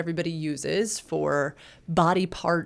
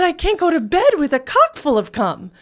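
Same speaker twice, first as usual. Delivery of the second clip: higher, louder, laughing through the quote; laughing retelling; 9 semitones higher, 8 dB louder than usual. Retold or imitated. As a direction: tell it while giggling. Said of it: "And he said".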